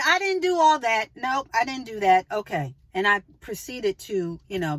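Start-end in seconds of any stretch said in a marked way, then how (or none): 0.0-2.3 higher, louder firm shutdown; retold emphatic denial to a rude shopper; firm flat denial. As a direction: cut her off with a flat no. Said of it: "I just flagged her".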